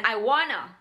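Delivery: 'I wanna' as one linked chunk; casual blended 'I wanna'; reduction. Shown as a demonstration. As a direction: drop the t in 'I wanna'. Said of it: "itu adalah reduction dari".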